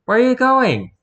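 put-on high, loud girl's voice; high-pitched nosy girl; young girl calling. A narrator's reading. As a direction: call after him, pitched well up. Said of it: "called a girl about his age".

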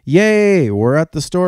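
the cats cheering at the store; excited yell. Acted. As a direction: squeal with joy on arrival. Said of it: "yelled the cats".

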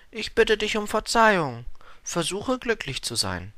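high-pitched flower voice; Blume bittet um Verzeihung. A narrator's reading. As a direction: pitch it well up, a contrite flower. Flower apologises, wishes him happiness. (hohe Blumenstimme, reumütig)

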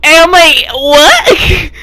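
high, loud, baffled what; stunned what. Retold or imitated. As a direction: blurt it out in disbelief. Reacting to dad's line.

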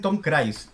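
"Cruise" said as "krais"; Spanish-style mispronunciation. Shown as a demonstration. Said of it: "¿Por qué Tom Cruise?".

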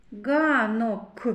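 "Ганок" with the closing к released separately; final sound picked out. Shown as a demonstration. Teacher showing children the last sound, final к set apart in "Ганок". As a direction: detach the k at the end of "Ганок". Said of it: "К твердий приголосний".

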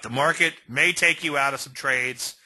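ordinary talk

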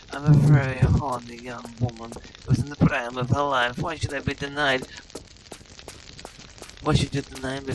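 hammed-up seductive British voice; sultry Lara Croft parody. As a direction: purr it like a vamping game heroine.

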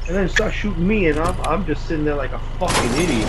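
worked-up, high and loud gamer rant; high-pitched, indignant outburst; outraged. Real, not acted. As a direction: rant in rising disbelief at being shot. Outraged gamer after being shot in game.

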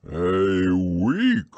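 breathy, gloomy whisper. Acted. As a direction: let the words sink in despair. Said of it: "said Pooh gloomily".

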